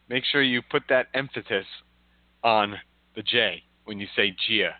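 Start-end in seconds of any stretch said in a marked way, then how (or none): 1.1-1.7 "emphasis" with a T in it; swimmer's mispronunciation. Retold or imitated. Cohost mimicking the swimmer's advice, "emphasis" as emphatis. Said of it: "This is how he said it".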